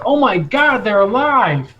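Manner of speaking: high-pitched gasp of disbelief; astonished guard. Acted. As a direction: start high, stunned by what you see. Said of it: "his eyes get super fucking wide".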